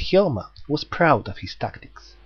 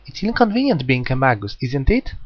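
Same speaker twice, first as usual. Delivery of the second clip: put-on murmured girl voice. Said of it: "Jack suddenly murmured".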